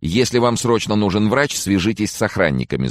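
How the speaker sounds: high-pitched, eager chatter; eager jabbering. A narrator's reading. Prefect butts into call to offer help, jabbering. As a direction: rattle on, keen to help. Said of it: "затараторила она, горя желанием помочь".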